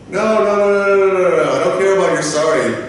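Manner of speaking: rapid high string of no's, then dismissive; exasperated refusal. Retold or imitated. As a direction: cut off the apology impatiently. Acted rejection of the apology.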